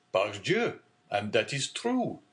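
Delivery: lightly delighted, drawn out a bit slowly; delighted cry. Acted. Shipowner delighted at Dante's news, mild glad cry. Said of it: "cried the owner, greatly delighted".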